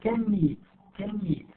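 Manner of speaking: unstressed CAN with a weakened vowel before MEET; reduced can. Shown as a demonstration. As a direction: stress only "meet", let "can" shrink. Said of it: "Can is unstressed".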